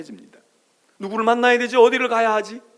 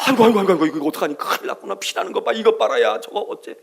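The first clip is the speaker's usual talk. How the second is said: fussing mother; 4 dB louder, faster than usual. Retold or imitated. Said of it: "엄마가 더 자지러지는 거야".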